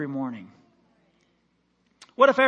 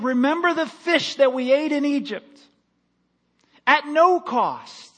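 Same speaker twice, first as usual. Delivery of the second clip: mock grumbling Israelites; 8 semitones higher, 5 dB louder than usual. Voicing Israelites longing for Egypt.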